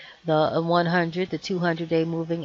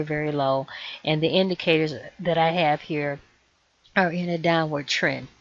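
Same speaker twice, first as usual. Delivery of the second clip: hoarse voice. Real, not acted. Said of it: "I'm losing my voice".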